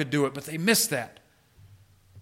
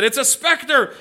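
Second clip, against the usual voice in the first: mild mock fear; 7 semitones higher than usual. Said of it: "they cried out in fear".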